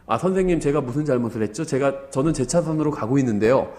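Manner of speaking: mildly softened polite question; gentle polite. Retold or imitated. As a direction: keep it calm and courteous, lightly acted. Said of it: "너무 부드럽게 얘기하는 거예요". (욕하는 운전자에게 부드럽고 공손한 말투)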